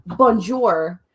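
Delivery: loud bonjour in a bad French accent. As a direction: greet in a hammed-up French accent. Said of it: "in a horrible accent of a new language".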